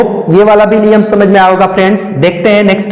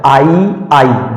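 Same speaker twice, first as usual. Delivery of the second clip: slow demo; 3 semitones lower, much slower than usual. Shown as a demonstration. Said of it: "जैसे उच्चारण होता है आई".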